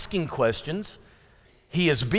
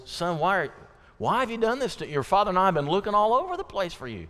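quick, pitched-up, anxious scolding; distressed mother; 5 semitones higher, faster than usual. Retold or imitated. Mary scolding her found son, quick and anxious. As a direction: rush it out with adrenaline still running. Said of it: "it comes out in the tone of voice".

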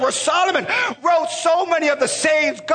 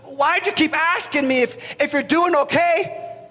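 puzzled dad; 3 semitones higher than usual. Retold or imitated. Father puzzled by his son's questions, bemused. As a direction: ask it baffled, drawing it out. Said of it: "comes back and he says".

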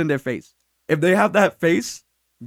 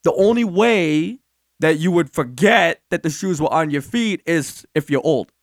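mock-polite; 3 semitones lower than usual. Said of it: "in, like, the nicest way possible".

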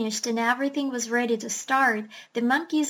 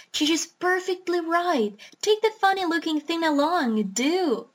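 higher, insistent duck voice, pressing hard; a housekeeping duck nagging her master; scolding duck; 4 semitones higher than usual. Acted. The duck pushes the doctor to take the beast, in a higher, insistent voice.

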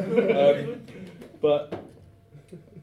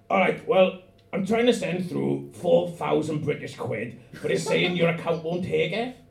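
put-on Welsh accent; 4 semitones higher, 3 dB louder than usual. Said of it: "I'm gonna do it in that fucking hot shit Welsh voice".

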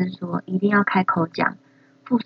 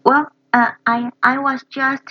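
higher, startled stammer; imitating Frankie then Lenny; 5 semitones higher than usual. Learner echoing the brothers' exchange, higher and startled. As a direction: stammer caught out. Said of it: "copies clip".

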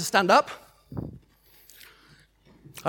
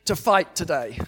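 bold prayer declaration; 3 dB louder than usual. Shown as a demonstration. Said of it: "Identify it and say".

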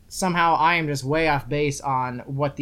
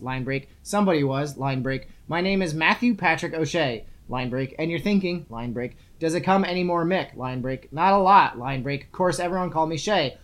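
reading book aloud. Acted. Host reading page two to co-host, line breaks announced, read-aloud voice. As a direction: read the prose out, dropping down for each break.

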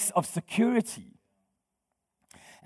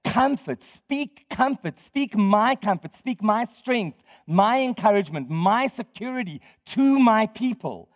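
emphatic; 3 semitones higher than usual. Retold or imitated. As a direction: declare each phrase deliberately, as God's message. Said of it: "But God is emphatic here".

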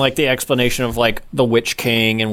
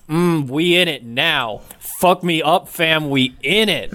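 slangy Gandalf; 3 semitones higher than usual. Retold or imitated. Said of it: "the way McKellen just says".

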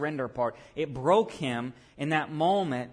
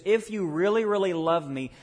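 higher, louder "really" repeated; fervent appeal; 4 semitones higher, 4 dB louder than usual. Acted. Jesus appealing to Peter, raised and fervent. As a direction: lift it and plead. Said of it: "Jesus says".

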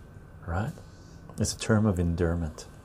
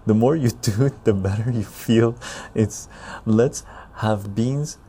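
reciting a rhyme. Shown as a demonstration. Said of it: "U S version".

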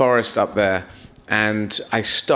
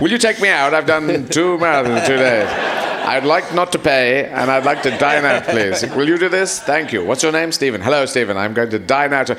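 hammed-up polite request; 2 semitones higher, 3 dB louder than usual. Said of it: "this thing of dining out".

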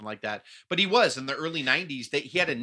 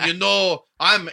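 loud, higher mimicry; Conan impression; 6 semitones higher, 10 dB louder, much slower than usual. Podcaster mimicking a wrestler he can't stand, loud mock impression. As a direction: burst into a mocking imitation, loud. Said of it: "So you got Conan going".

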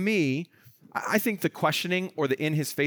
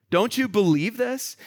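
higher, slow, insistent challenge; insistent questioning; 6 semitones higher, slower than usual. Acted. Paul challenging Agrippa to his face, insistent. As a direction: press the question home, drawn out.

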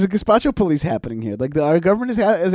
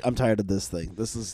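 fed-up mutter; 8 semitones lower, 10 dB quieter than usual. Retold or imitated. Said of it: "you're like".

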